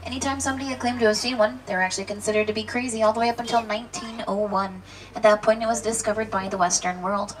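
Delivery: safari guide spiel. Acted.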